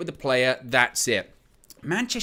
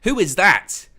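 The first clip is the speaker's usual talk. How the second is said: louder, higher mock disbelief; incredulous query; 4 semitones higher, 7 dB louder, slower than usual. Frankie spotting a third signing at the club, incredulous. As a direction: act out disbelief at one more newcomer.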